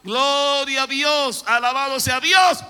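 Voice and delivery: loud, high, slow praise shout; crowd shouting praise. Retold or imitated. Millions of Israelites at Jericho, loud high shout. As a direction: shout it like three million voices. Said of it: "judíos gritaron".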